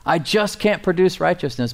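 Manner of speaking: anguished cry. Acted. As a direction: let the man break under his failure. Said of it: "he comes to the conclusion".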